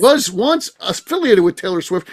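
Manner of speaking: high, worked-up protest; angry, exasperated. Real, not acted. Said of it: "That's what angers me about it".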